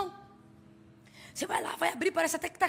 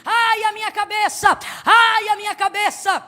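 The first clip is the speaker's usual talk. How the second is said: put-on boy crying in pain; 5 semitones higher, 6 dB louder than usual. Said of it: "E o moleque só gritando".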